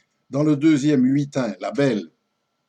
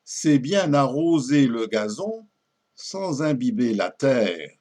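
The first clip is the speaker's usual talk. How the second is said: poem recitation; 3 semitones higher than usual. Acted. Suitor reassuring the hesitant lady, theatrical poem recitation.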